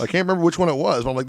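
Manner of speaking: ordinary talk, nothing marked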